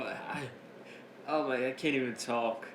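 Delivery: breaking up mid-sentence with laughter; laughing, can't talk. Real, not acted. Host quoting Pete Dunne, collapsing into laughter. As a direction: try to quote it but keep cracking up. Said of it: "I'm laughing right now".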